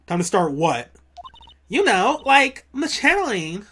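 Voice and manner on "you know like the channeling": put-on Valley Girl voice. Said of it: "I gotta do a Valley Girl voice".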